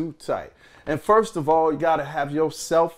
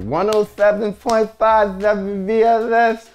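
radio announcer; 10 semitones higher, 5 dB louder than usual. Retold or imitated. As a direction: announce the station big. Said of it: "And I'm like".

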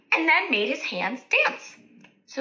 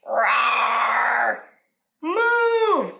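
knights shouting; 4 dB louder than usual. Acted. Knights in battle shouting at Boy to move. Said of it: "said the knights".

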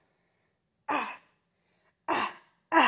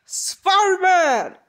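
shouting; 4 semitones higher, 3 dB louder, slower than usual. Acted. Calling out again.

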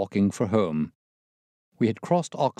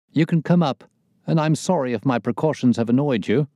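raised, edgy voice of an anxious man; jangled nerves; 4 semitones higher, 5 dB louder than usual. A narrator's reading. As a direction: apologize loudly, nerves on edge. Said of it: "as well as his voice testified to his jangled nerves".

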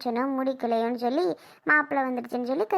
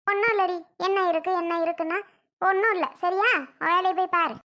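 irritated brush-off; 3 semitones higher than usual. Acted. Mother waves off her worried daughter, snapping irritably. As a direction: cut her off, annoyed. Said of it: "ஏன் இந்த மாதிரி நடந்துக்கிற நீ?".

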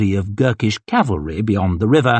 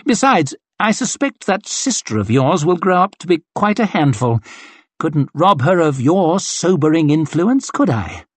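lightly voiced haughty officer, a touch higher; breezy command from a vain colonel; arrogant colonel; 6 semitones higher than usual. Colonel dismissing his young corporal, lightly haughty. Glocta teases West.

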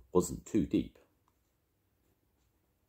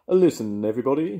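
higher and louder, calling to the family; 9 semitones higher, 8 dB louder, faster than usual. A narrator's reading. Grandad reading, Mister Brown calls to the family aboard the sleigh, loud and higher. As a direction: call out over the noise to everyone. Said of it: "he called".

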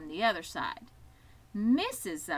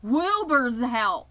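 loud, drawn-out holler; excited announcement; 3 semitones higher, 10 dB louder, slower than usual. A narrator's reading. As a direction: holler the news slowly across the barnyard. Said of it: "when they heard the goose hollering".

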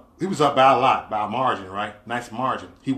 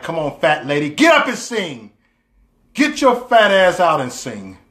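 impatient urging; 2 semitones higher, 4 dB louder than usual. Retold or imitated. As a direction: urge them on, punching it out. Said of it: "That's how I felt".

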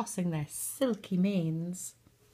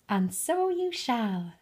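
lilting, slow fairy voice, set a little higher; a gentle, singsong fairy godmother; musical voice; 5 semitones higher than usual. Acted. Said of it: "said a musical voice".

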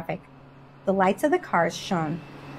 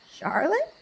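muttered disbelief; 9 semitones higher than usual. A narrator's reading. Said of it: "muttered the older sheep".

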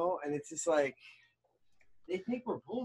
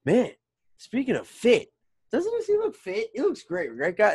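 mocking MJF; 12 semitones higher than usual. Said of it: "the first thing M J F points out is".

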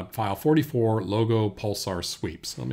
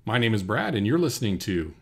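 slightly projected station ident, louder; radio host; 5 dB louder than usual. Pretend. Second take of station ID.

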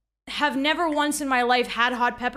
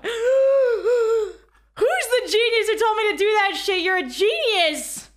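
excited outburst; 5 semitones higher than usual. Real, not acted. Jar finally opens.

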